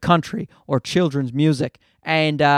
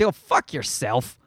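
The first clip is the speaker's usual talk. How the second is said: low, slow, softer disgusted dismissal; scornful aside; 8 semitones lower, 5 dB quieter, slower than usual. Real, not acted. Comedian mutters low contempt at smug performers. Scornful retort to mocked people.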